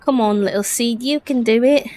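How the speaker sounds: gently cheering on a little seedling; encouraging. Acted. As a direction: coax it along with a rising lilt. Character urges on the seed.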